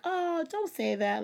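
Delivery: high, drawn-out mock comfort; mock consoling. Mimicking people who dismiss depression, slow mock consoling. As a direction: imitate a dismissive well-wisher, slowly. Mimicking unhelpful cheer-up advice.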